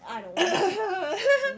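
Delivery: laughing loudly through the words; laughing protest. Real, not acted. Laughing refusal while reading.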